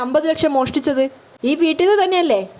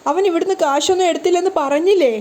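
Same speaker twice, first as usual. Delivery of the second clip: a hint of tears as she begs; mild crying plea; 4 semitones higher than usual. Wife pleads with mother-in-law, mildly tearful. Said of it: "കരഞ്ഞുകൊണ്ട് രേവതി പറയാണ്".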